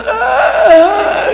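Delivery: high drawn-out animal groan; imitated lion noise. Preacher voicing the lions in Daniel's den, imitated animal noise.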